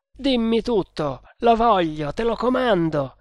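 high, insistent order; desperate command. A narrator's reading. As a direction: demand it with mounting urgency. Desperate man commands the prisoner.

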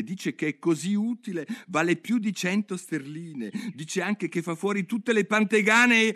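put-on a curious girl talking to herself; Alice thinking aloud. Alice muses alone in the lake, light girl voice.

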